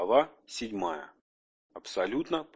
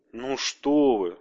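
flustered; 5 dB louder, much slower than usual. Acted. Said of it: "сконфуженно замахал руками коротышка".

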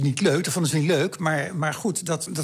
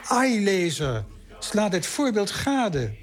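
solemn epitaph reading; 5 semitones higher than usual. Shown as a demonstration. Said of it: "Ik citeer nou, een grafschrift".

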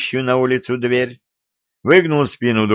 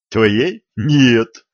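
questioning rise, then an emphatic no; quickly disown the very idea; hasty refusal. A narrator's reading. Youth refusing the wolf's love, hastily and emphatically. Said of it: "поспешил откреститься Виталий".

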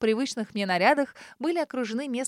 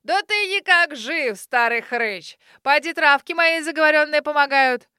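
joyful shout; 4 semitones higher, 6 dB louder than usual. A narrator's reading. Grandmother calling gladly to the neighbour, joyful shout. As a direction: hail an old friend with delight. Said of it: "громко и радостно закричала".

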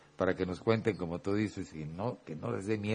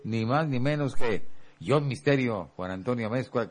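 ringmaster; 2 semitones higher, 3 dB louder than usual. Acted. Grand host introduction of guest.

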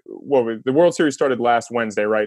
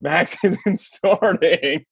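slow bad news; 4 semitones higher, much slower than usual. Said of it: "And he goes".

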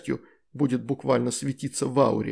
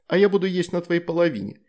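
silly teasing; 6 semitones higher, 4 dB louder than usual. Acted. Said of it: "пообещала Лакджа, сделав самое глупое лицо".

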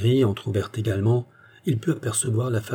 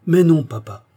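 put-on higher, louder, lightly playful girl's voice; fresh, laughing girl; 7 semitones higher, 7 dB louder than usual. A narrator's reading. Daughter interrupting her father from the doorway, fresh and cheerful. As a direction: pipe up brightly as a cheerful daughter. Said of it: "dit une voix fraîche et rieuse".

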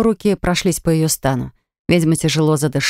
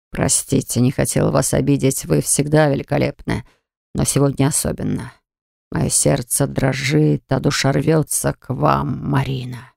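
low lovesick man; 4 semitones lower than usual. Acted. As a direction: confess like a smitten man. Varg pours out his heart.

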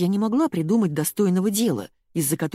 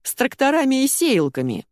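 blurted joke; 8 semitones higher, 3 dB louder than usual. A narrator's reading. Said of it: "брякнул Кеша".

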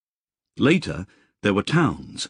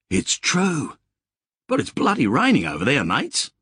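higher, quicker voice of a rattled mate; shaken Billy; 7 semitones higher than usual. Acted. Billy back from the other world telling mates, high and hurried. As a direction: blurt out the news, pitch up and hurried.

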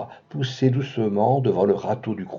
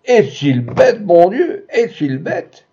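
crying through giggles; 6 semitones higher, 3 dB louder, slower than usual. A narrator's reading. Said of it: "cria d'une voix coupée de gloussements".

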